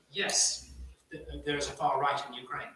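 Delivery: normal talking voice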